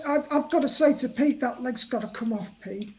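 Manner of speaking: through gritted teeth. Acted. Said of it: "And I say it through gritted teeth like that".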